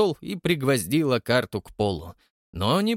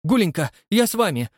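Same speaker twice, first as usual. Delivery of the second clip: mumbled excitement; 7 semitones higher, 4 dB louder than usual. A narrator's reading. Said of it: "забормотал он".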